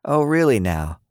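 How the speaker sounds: sly, high skeptical question. A narrator's reading. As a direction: tease him with mock doubt. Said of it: "sly smile".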